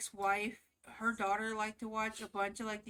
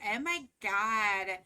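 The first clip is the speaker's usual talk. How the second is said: mocking preppy girl; 3 dB louder than usual. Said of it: "be like".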